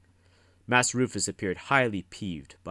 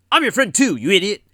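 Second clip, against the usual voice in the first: much higher, louder indignant outburst; bursting out; 14 semitones higher, 15 dB louder than usual. A narrator's reading. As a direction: blurt it out, stung and offended. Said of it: "Jasper burst out".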